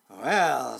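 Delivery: loud, drawn-out dragon retort. A narrator's reading. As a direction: draw the word out loudly as a dragon. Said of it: "said the dragon".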